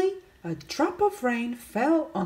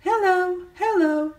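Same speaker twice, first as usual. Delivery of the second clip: high, louder quick hellos; busy bees; 9 semitones higher, 4 dB louder than usual. Acted. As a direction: bustle through like busy bees. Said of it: "they said very busily".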